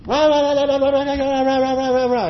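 a hint of a ranting scold, imitating what the Lord did not say to Peter; mock scolding rant. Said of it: "He didn't go".

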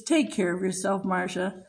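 low, soft, tender farewell; sweet tenderness. Retold or imitated. Elderly mother bidding her daughter goodbye, sweet tenderness. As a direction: say it gently, dropped low and quiet. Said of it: "she looked at me so sweet".

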